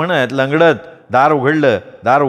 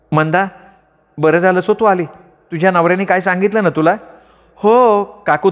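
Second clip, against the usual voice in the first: higher scolding aunt voice; gossiping aunt; 5 semitones higher than usual. Acted. Aunt demanding the affair be exposed, higher scolding voice. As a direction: stir up trouble like a nosy aunt.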